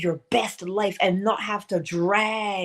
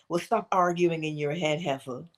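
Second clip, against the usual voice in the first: blunt self-scolding; 4 semitones lower, 3 dB quieter than usual. Retold or imitated. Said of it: "That's what I say to myself".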